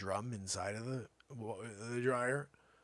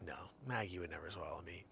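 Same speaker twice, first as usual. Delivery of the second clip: put-on 1 calm child; 4 semitones lower, 9 dB quieter than usual. Daughter calmly reassuring dad.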